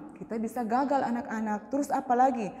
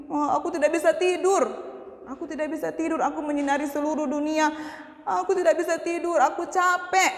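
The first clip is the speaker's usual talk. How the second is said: tired whining; 4 semitones higher, faster than usual. Acted. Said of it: "dia bilang begini".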